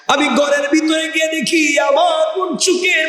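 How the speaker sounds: high chanted confession; melodic preaching. Acted. Trapped man confessing to God about his cousin, chanted preaching. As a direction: intone each phrase high, drawing out its end.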